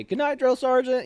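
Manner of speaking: high sing-song goodnight; chorused goodnight. Retold or imitated. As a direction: call it out like the whole bay. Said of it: "we'd always say".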